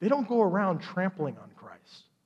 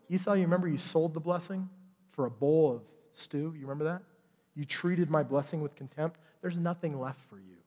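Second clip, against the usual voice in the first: much softer, grave reproach; solemn rebuke; 6 dB quieter than usual. Retold or imitated. God reminding Esau he sold the blessing, soft and grave. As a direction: quietly lay out the verdict.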